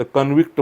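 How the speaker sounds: कन्व्हिक्ट stressed on the second syllable, con-VICT; verb stress. Shown as a demonstration. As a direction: say कन्व्हिक्ट as kun-VIKT. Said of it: "कॉन्व्हिक्ट म्हणत नाही".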